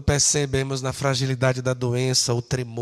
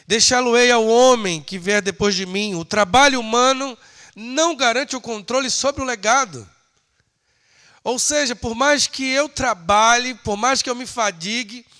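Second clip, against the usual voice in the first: higher, insistent pulpit voice; emphatic preaching; 8 semitones higher, 7 dB louder than usual. Acted. Preacher explaining that labour cannot control legacy, emphatic.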